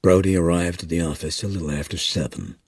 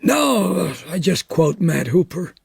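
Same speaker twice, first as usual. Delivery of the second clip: Meadows voice; 10 semitones higher than usual. A narrator's reading.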